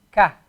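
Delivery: "ka" said like an ordinary English K plus a; a light front "ka", not from the throat; plain ka. Shown as a demonstration. Teacher contrasting "ka" with "Qa" for students. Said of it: "kaf is gonna be just a".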